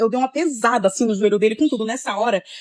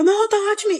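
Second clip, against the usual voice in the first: retold yell; 10 semitones higher than usual. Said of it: "Eu falava".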